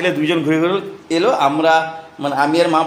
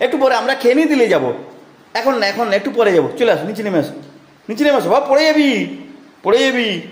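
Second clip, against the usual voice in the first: high, pleading sing-song; বাচ্চাকে নামতে ডাকা, উঁচু গলায়; 5 semitones higher than usual. Real, not acted. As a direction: call the little one back down before he falls. Calling toddler down from stairs.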